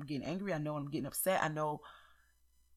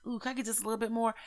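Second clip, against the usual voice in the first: higher, quick, sugary please; sweet asking; 5 semitones higher, faster than usual. Retold or imitated. At the counter asking for more butter, mock sweet and quick. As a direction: coax the cashier with a sweet little ask.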